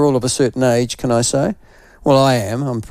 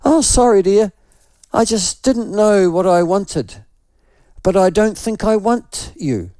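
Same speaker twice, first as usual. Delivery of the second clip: replaying what he said; 5 semitones higher than usual. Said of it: "And I said".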